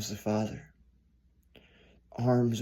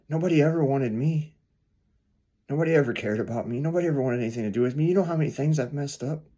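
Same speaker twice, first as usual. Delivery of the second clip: anguished outburst; 4 semitones higher, 5 dB louder, faster than usual. Acted. Homeless man pours out his despair.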